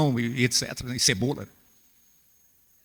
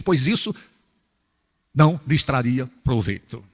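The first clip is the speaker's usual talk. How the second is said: preaching scripture; 2 semitones higher than usual. Acted.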